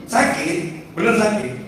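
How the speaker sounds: mock pained cry, high-pitched; acted pain. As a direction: pretend it really hurts. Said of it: "Sambil kesakitan". (pura-pura kesakitan)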